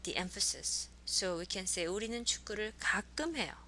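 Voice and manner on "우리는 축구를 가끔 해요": 가끔 picked out with a pitch peak; stress on 가끔. Shown as a demonstration. Teacher showing how intonation moves the emphasis, stress on 가끔. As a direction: lean on the word 가끔. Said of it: "I'm emphasizing that with pronunciation".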